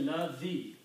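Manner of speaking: "Lazi" said slowly as in Arabic; Arabic word Lazi. Shown as a demonstration. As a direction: sound out "Lazi" clearly. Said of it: "three letters combined this way".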